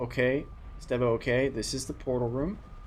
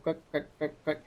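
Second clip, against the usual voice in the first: quacking; 4 semitones higher than usual. Shown as a demonstration. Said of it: "a goose sounds like quack".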